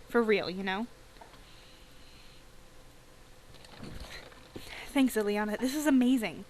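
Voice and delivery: put-on bubbly teen girl thrilled and showing off; excited teen girl. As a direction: squeal over the returned watch like a bubbly teen. Teen girl Tan gets watch.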